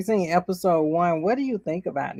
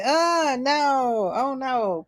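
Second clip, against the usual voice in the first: high, drawn-out dismay; mock alarm; 8 semitones higher, much slower than usual. Leia seeing people shoot at him, high mock dismay. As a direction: imitate a worried kid, pitched well up.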